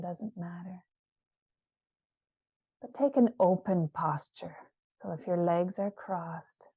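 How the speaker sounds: unhurried, soothing guided visualisation; guided meditation. Acted. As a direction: lead listeners gently inward, leaving space after each phrase. Leads a guided visioning meditation.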